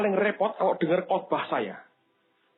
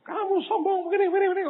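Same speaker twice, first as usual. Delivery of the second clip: pretend angry outburst; 13 semitones higher, faster than usual. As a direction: snap at him as a hot-tempered preacher would. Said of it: "Kalau saya ini orang emosian".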